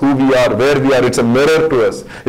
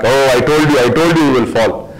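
scolding I-told-you-so. Acted. Preacher acts out the Jesus Peter didn't get, mildly scolding. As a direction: rebuke him as if you saw it coming. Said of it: "his eyes were not like".

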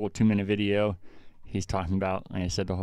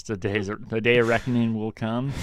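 dramatic villain; 2 semitones higher than usual. Retold or imitated. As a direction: announce doom like a movie villain. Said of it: "he does this maniacal laugh and says".

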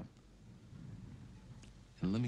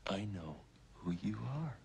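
hushed quote. Acted. Whispered retold threat.

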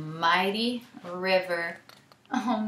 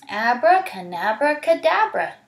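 magic spell; 2 semitones higher, 5 dB louder than usual. Acted. Storyteller casting a spell for children, rising chant. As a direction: cast it with a flourish.

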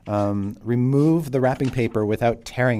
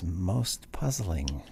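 puzzled woman; 5 semitones lower, 10 dB quieter, much slower than usual. Acted. GM voices the woman NPC.

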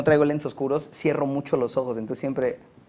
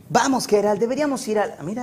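higher cartoon boy voice; Hey Arnold; 6 semitones higher than usual. Shown as a demonstration. Dubber showing his cartoon role on request, higher boy voice. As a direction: do the dubbed cartoon kid, pitched up. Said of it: "¿tenemos una imagen de Hey Arnold?".

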